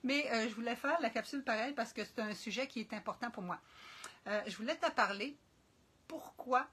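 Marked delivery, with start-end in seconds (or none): 0.0-3.6 lisping after the dentist. Real, not acted. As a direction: talk with a real lisp, s slurring toward th. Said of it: "tu vas voir que je zozote".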